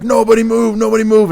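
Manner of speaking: high, loud cop order; mock police shout; barked command. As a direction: mimic a cop yelling freeze. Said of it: "they're like".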